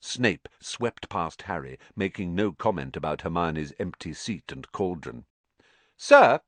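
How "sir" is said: high, loud call for attention. A narrator's reading. Malfoy calling out loudly to Snape. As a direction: call out to the teacher. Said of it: "said Malfoy loudly".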